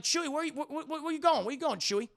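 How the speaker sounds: high, stammering call after him; worried calling. Acted. Friends calling after wandering Chewie, worried call. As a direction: call out in mounting confusion, tripping on words.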